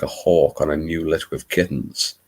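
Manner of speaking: put-on Louisiana narrator; Bayou Babe accent. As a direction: read the line in an attempted American Southern accent. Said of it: "my attempt at a Bayou Babe".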